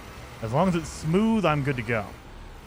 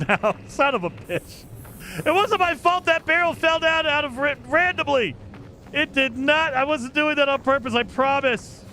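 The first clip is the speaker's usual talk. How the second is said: high-pitched protest; 8 semitones higher than usual. Real, not acted. Pleading innocence to angry animal.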